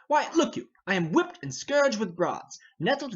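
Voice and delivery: high, loud burst of exasperation; exasperated outburst. Acted. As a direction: explode with impatience. Hotspur bursts out in rage.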